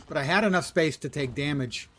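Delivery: indignant. Real, not acted. Indignant complaint.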